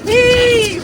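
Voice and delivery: shouted work call. Real, not acted. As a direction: bark it out to the crew. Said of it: "I'm gonna say heave".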